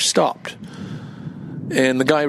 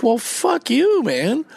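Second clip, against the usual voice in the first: angry retort; 10 semitones higher, slower than usual. Retold or imitated. Cursing the begging driver.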